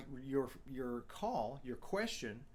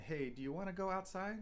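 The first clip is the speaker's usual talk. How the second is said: pitch lifts a little on outside; 6 semitones higher than usual. Showing how a question often ends, rising pitch on outside. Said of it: "And our pitch goes up a little bit".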